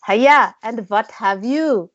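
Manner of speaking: slow, badly faked Indian accent sign-off; a clumsy, slow attempt at an Indian accent. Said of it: "do it in the Indian accent".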